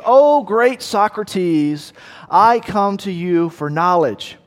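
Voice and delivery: high, slow, grandly pompous plea; pompous young man. Acted. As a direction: play him as a puffed-up fool begging the master. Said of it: "this kind of pompous numbskull".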